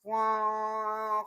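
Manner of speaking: drawn-out imitated train horn "পোঁ". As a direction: copy the long blast of a train whistle. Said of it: "ট্রেনের আওয়াজ দেয়". (ট্রেনের হর্নের মতো লম্বা "পোঁ")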